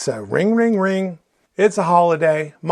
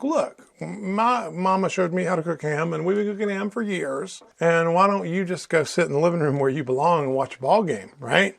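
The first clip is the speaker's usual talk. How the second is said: indignant wife. Retold or imitated. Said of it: "she's quite defensive, just absolutely indignant".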